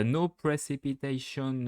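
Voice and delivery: a lightly put-on English accent, slowed. Shown as a demonstration. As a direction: say it like an English speaker, unhurried. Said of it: "avec mon bel accent anglais". (léger accent anglais, lent)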